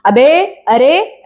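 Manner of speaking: drawn-out mock street call; mimicked rude address. Mother scolding children's party manners, mimicking their rude calls. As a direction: mimic the kids' rude slangy hailing, stretched out. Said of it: "ऐसे बात करते हो".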